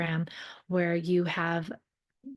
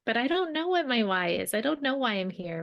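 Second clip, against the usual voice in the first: higher-pitched, lightly imitated fretting; mock existential crisis; 5 semitones higher than usual. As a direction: imitate someone lost about their purpose, pitched up. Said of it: "In that existential crisis".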